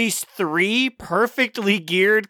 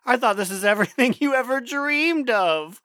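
mock taunting; 5 semitones higher than usual. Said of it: "and they're like".

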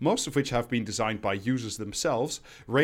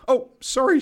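squeaky falsetto mockery; 12 semitones higher, 7 dB louder than usual. Voicing northern English woman.

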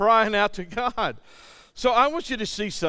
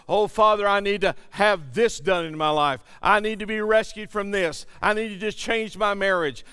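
mildly raised, insistent pleading; crying out. Acted. Preacher voicing a believer's needs to the Father, crying out. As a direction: plead in a run of urgent requests. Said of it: "we need to cry out".

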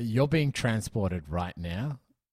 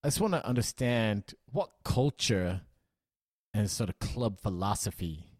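put-on a half-hearted American journalist accent, pitched a bit up at the start; weird American accent. Podcast host as a journalist questioning the new owner, in a mild American accent. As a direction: play a press reporter with a loose, put-on American accent. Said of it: "talking in a sort of weird American accent".

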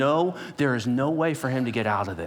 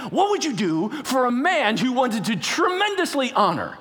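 king's question; 10 semitones higher, 3 dB louder than usual. Acted. King voiced asking Haman.

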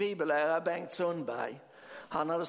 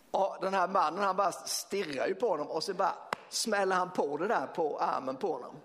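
ordinary talk, nothing marked

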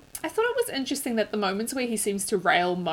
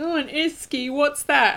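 higher-pitched imitation of baffled people; mock puzzlement; 8 semitones higher, 6 dB louder, slower than usual. People querying her word for cooler, mock puzzled. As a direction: mimic their puzzled question, pitched up.

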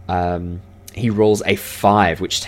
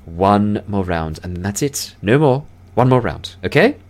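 insistent elf; 2 semitones higher, 4 dB louder than usual. Acted. Elf to winning dwarf, insistent last-round terms. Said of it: "The elf goes".

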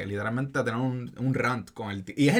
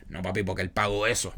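mock whiny complaint; 5 semitones lower than usual. Man at counter complaining, retold.

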